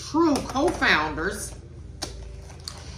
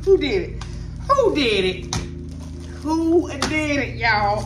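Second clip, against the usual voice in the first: excited; 6 semitones higher than usual. Real, not acted. Amazed by a gift.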